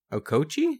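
"Okochee" as a questioning guess, rising at the end; tentative, rising "Okochee"; unsure pronunciation. Real, not acted. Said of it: "I legit do not know".

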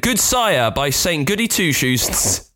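lightly voiced pompous courtier, slowing down; hint of a jester addressing his king in state; grand old courtly speech. Jester to the king, asking to die of old age, mildly grand. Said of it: "they have to speak much grander than that".

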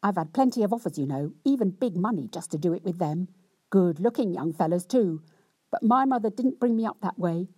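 hammed-up self-pitying rant; cross, wronged wife. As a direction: lay on the injured virtue, complaining. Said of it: "in much the same way as before".

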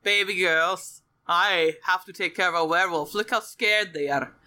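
Father Solomon. Acted. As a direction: explain gravely to little daughters, hammed up. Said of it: "And Father Solomon's like".

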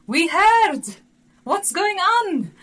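high, loud worried relative voices; anxious relatives. Retold or imitated. Relatives phoning in alarm after hearing the news. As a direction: cry out like alarmed family on the phone.

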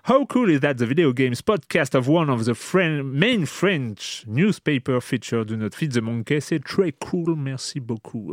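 put-on French speaker putting on an English accent. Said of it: "je fais un accent anglais".

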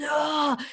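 high, drawn-out "ugh" of pent-up anger; angry groan. Retold or imitated. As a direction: act out a groan of frustration. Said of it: "so full of anger and you're like".

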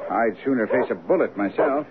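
usual speaking voice

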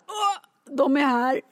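high, giddy laughing cry; excited squeal. Retold or imitated. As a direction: gush like a thrilled fan. Bar staff spotting the door.

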